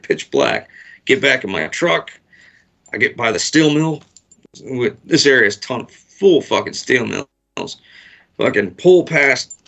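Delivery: normal talking voice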